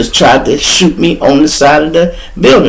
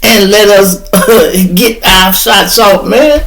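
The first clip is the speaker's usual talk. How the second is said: laughing while talking; 6 semitones higher than usual. Retold or imitated. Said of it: "I started laughing so hard".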